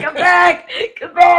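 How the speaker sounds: very high, playful pleading; high-pitched mock plea through laughter; mock far-off calling. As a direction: call them back in a tiny high voice. Joins mock distant calling.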